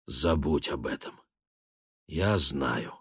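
мягко, тише обычного; успокой мать тихо; тихо и нежно. A narrator's reading. (сын тихо утешает мать, мягким голосом)

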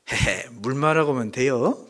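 lightly imitated Jeolla dialect with a chuckle; hint of sly Jeolla humour. Preacher retelling a restaurant gag, Jeolla dialect. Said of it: "이거를 전라도에서는".

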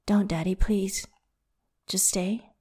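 whispered, pleading, nearly no voice; breathed whisper. Acted. Lover begging his partner to stay, whispered. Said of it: "he breathes".

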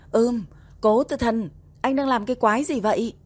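startled protest. A narrator's reading. Wife exclaims at husband's sudden advance.

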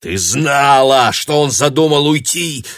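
put-on man looming over the girl in fury; growled in cold fury. A narrator's reading. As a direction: roar the accusation over her. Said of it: "прорычал Мэтью".

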